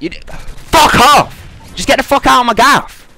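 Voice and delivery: half-acted explosion, telling her to get out; retold yell.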